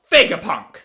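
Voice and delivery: angry yell. Acted. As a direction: yell out the name. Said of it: "Bonnie just yells".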